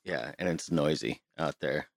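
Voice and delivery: boxy closet sound; recorded in a small closet; inside a closet. Real, not acted. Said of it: "we're recording in the closet".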